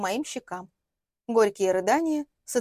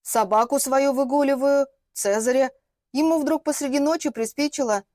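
flustered reply; 4 semitones higher, 5 dB louder than usual. Acted. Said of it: "растерялась от моей наглости".

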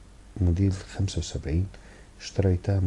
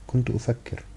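higher-pitched, lightly smiling reply; sweetly smiling; 7 semitones higher than usual. A narrator's reading. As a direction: answer through a sweet smile, pitched up. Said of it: "قالت من خلال ابتسامتها الحلوة".

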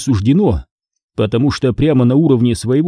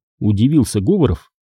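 plain reading voice

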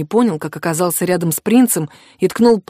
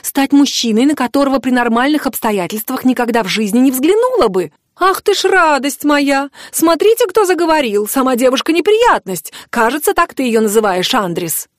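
put-on indignant young woman; 6 semitones higher, 3 dB louder than usual. Mari's heated tirade.

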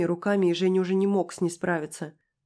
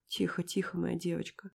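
тише, нежно; убаюкай ребёнка; утешение; 7 dB quieter than usual. A narrator's reading. Успокаивает ребёнка. (тихо утешает девочку)

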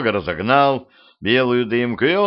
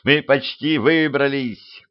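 raised-pitch, stretched cry; calling out; 4 semitones higher, slower than usual. Acted. Petrovich sees sunlight ahead, calling out. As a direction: call encouragement, higher and drawn out. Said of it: "крикнул Петрович".

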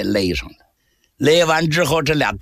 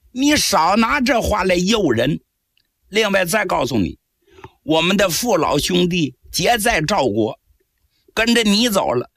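higher, scoffing soldier's retort; scornful guard; 5 semitones higher than usual. Acted. Guard refusing the captive's bribe, scornful retort. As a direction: brush off the prisoner's offer.

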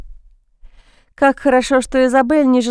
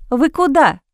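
anxious; 4 semitones higher than usual. A narrator's reading. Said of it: "спросила она с тревогой".

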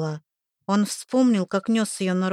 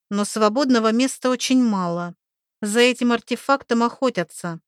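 put-on lively young woman voice; 3 semitones higher than usual. Oksi explaining excitedly.

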